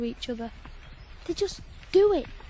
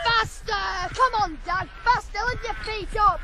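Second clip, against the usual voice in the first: urging on; 5 semitones higher than usual. Acted. Boy urging horses.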